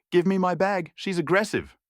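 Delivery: high yell to the whole cabin. A narrator's reading. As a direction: call out to the cabin, accusing. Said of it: "Beatrice yelled to the cabin".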